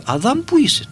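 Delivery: calling out high, simple and direct; God calling Adam. Retold or imitated. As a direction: call the name up high, like a voice from above.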